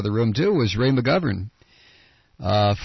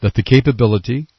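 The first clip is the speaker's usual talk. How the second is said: mock slow, emphatic chairman, louder and building to a loud finish; Ike Skelton; 3 semitones higher, 8 dB louder than usual. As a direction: ham up a pompous committee chair, hitting every word. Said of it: "responded slowly and emphatically".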